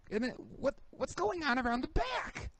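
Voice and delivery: baffled questioning. Real, not acted. Baffled rant about the paint scheme.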